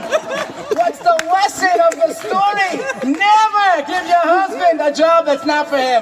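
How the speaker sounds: slow, loud moral punchline; punchline delivery. Acted.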